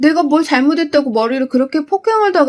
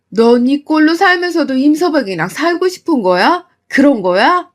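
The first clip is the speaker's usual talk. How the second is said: loud, raised demanding; angry pressing; 4 semitones higher, 4 dB louder than usual. Acted. Mother pressing daughter about staying married, angry. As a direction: demand an answer hotly.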